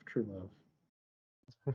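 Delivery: mock-romantic swooning "true love" trailing off quietly; drawn-out sighing true love. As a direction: let "true love" melt away in a soft mock swoon. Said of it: "It's like".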